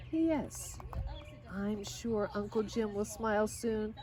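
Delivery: put-on lively storybook reading of a girl's letters; reading to children. A narrator's reading. Reading Lydia Grace's letters home to listening kids, storybook voice. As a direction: read it like a bedtime story, bright and gentle.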